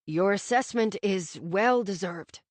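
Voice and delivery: a hint of a sorry father; regretful father.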